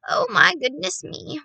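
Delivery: high, loud exclamation; excited cry. A narrator's reading. Grandmother thrilled at the work ahead, excited cry. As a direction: exclaim with delighted anticipation. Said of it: "she cried".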